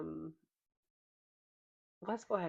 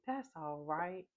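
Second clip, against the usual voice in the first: slow, mild imitation of an unbothered grandpa; grandpa shrugging it off; slower than usual. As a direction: lightly mimic a grandpa calmly waving away a broken leg. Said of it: "he had different inflections for".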